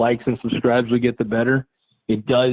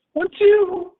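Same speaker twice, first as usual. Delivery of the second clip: high pitched; 3 dB louder than usual. Real, not acted. Testing mic with voice play.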